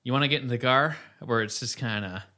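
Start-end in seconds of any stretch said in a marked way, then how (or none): 0.0-1.0 plain, level Iowan delivery; flat Iowan accent. Shown as a demonstration. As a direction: flatter Iowan take on the car line. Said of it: "I think we're more flat".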